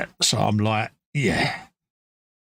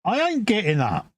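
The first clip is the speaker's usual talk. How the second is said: stubborn refusal; 5 semitones higher than usual. Retold or imitated. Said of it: "you're like".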